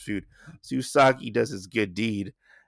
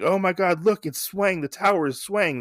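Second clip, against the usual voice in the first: higher-pitched mock alarm from the crowd below; alarmed villagers; 7 semitones higher than usual. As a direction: gasp it out like startled onlookers. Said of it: "the people from below say".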